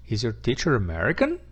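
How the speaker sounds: "Is your teacher American?" lifting sharply on "American"; yes-no tune rising at the close; rising intonation. Shown as a demonstration. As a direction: end with a clear upward rise. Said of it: "The intonation goes up in the end".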